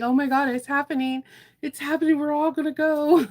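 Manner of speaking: excited disbelief. Retold or imitated. Telling viewers about friends leaving, excited. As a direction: replay the moment it sinks in, thrilled. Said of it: "And I'm just like".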